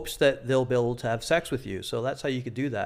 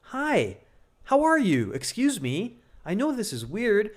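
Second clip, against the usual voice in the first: much higher, tight nervous voice; nervous high opener; 6 semitones higher, slower than usual. Shown as a demonstration. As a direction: approach her as a scared beggar. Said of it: "you sound like this".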